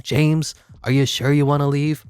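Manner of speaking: hammed-up begging him not to leave; mock pleading. Asking James Harden not to leave, mock pleading.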